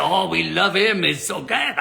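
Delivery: slow, gushing mock French accent. Restaurant woman praising Ben, gushing French accent. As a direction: imitate a French accent, drawing the words out. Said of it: "she's got this French accent".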